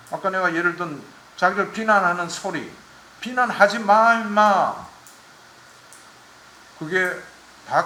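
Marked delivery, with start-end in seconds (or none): 3.2-4.9 loud, higher mock snap at a critic; mock angry retort. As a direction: bark it back at someone insulting you. (비난한 사람에게 버럭 화내는 흉내)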